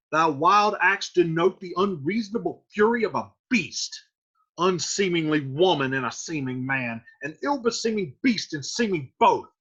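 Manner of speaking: worked-up scolding, punching the key words; emphatic reprimand, rising into indignant questions; angry Friar Lawrence. Acted. Friar has had it with Romeo, angry scolding. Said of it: "Friar Lawrence has had it with him".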